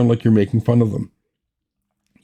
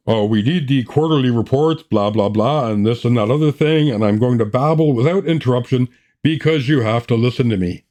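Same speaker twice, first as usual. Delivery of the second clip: droning boss. Acted. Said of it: "When the boss is talking".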